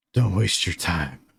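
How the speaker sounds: winded, breathless voice. Voicing a wounded figure who answers a healer: winded voice. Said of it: "a very, um, uh, winded voice".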